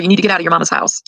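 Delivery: hushed, quick whisper of his advice; whispered quote. Retold or imitated. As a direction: pass on his words in a whisper. Quoting G-Man's advice.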